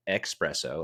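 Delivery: espresso voiced as "ex-PRESS-oh". Shown as a demonstration. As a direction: sound the X in "espresso". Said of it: "spell it with an X".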